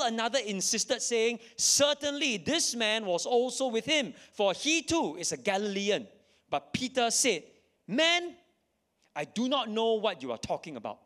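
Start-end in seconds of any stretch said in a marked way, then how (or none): 1.6-6.1 raised accuser voice. Acted. 7.9-11.0 exclaimed denial. Acted. Peter's third denial.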